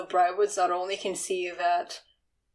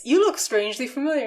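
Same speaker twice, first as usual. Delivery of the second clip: lightly voiced dim-witted lout; simpleton voice; 4 semitones higher, 3 dB louder, faster than usual. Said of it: "kind of, like, simpleton voice".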